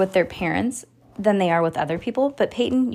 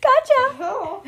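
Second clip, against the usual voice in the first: much higher, louder playful gotcha; mock cool mom; 13 semitones higher, 4 dB louder, much slower than usual. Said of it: "I would be like".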